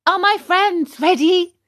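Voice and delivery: put-on high, eager puppet boy; bright high marionette voice; Pinocchio voice.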